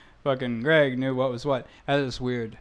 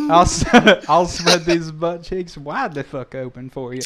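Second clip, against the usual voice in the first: put-on Southern accent; 3 semitones higher, 5 dB louder than usual. Host imitating co-host in a mock Southern accent. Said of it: "Greg's like".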